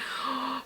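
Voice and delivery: a sharp breathy mock gasp; imitated gasp. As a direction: gasp like a shocked mom. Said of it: "she laughed and she was like".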